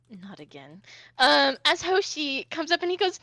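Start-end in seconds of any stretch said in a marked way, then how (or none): 0.1-0.8 low, very soft resigned murmur; weary dread. Acted. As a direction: mutter it low to yourself, fed up. Woman dreads seeing Hoshi again.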